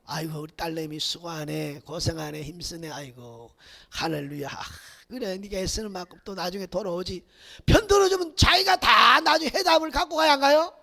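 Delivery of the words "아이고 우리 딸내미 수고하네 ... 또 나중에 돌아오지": much lower, much softer soothing words; father softly praising his hardworking daughter; tender father. Retold or imitated. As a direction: comfort your daughter gently. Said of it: "근데 지금 뭐예요".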